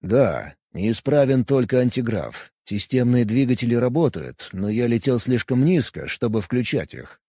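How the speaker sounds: cool, calm alien; Vulcan voice. Acted. Vulcan Kos answers.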